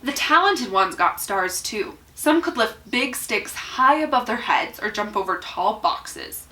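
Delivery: measured picture-book read-aloud with lifted key words; story narration. A narrator's reading. Reader telling children about small wooden people, storybook narration. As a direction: read it expressively, pausing between phrases.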